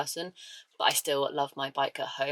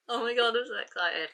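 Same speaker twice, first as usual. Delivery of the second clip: raised, gushing joy; excited; 6 semitones higher than usual. Real, not acted. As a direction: let the excitement lift the pitch. Unboxing long-awaited book.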